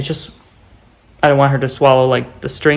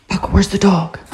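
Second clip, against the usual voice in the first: excited; 6 semitones higher than usual. Real, not acted. Teasing dog Paco.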